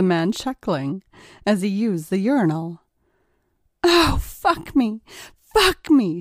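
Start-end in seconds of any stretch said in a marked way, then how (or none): 3.8-5.0 high, slow, drawn-out fake ecstatic scream. A narrator's reading. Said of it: "she screamed". 5.4-6.2 high loud fake ecstatic cry; loud staged cry of pleasure; screamed. A narrator's reading. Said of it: "she screamed".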